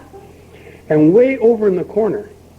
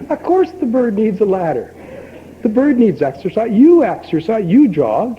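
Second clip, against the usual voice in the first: higher, louder, eager sales patter; a pet-shop owner talking a customer into more gear, pushy and upbeat; pushy salesman; 4 semitones higher, 4 dB louder than usual. Acted.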